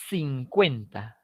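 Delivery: slow, drawn-out "cincuenta"; slangy youth. Shown as a demonstration. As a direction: stretch "cincuenta" lazily. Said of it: "en vez de decir simplemente". (jerga juvenil arrastrada)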